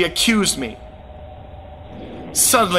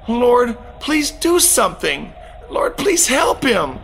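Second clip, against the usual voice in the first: 1 desperate plea; 5 semitones higher than usual. Retold or imitated. Pleading with the Lord to help.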